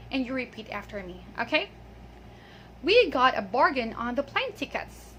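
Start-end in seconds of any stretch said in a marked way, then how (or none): 2.8-5.1 model example reading. Shown as a demonstration. Teacher reads first so learners repeat after her, model reading. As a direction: carefully read example sentence for learners. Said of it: "I'll read it first".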